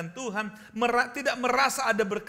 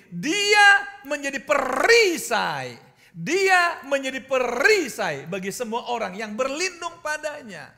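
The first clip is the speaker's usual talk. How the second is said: preaching at full force; 5 semitones higher, 8 dB louder than usual. Acted. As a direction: proclaim it to the congregation.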